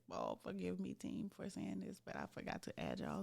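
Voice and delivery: whispered aside. Real, not acted. Whispered aside to her team.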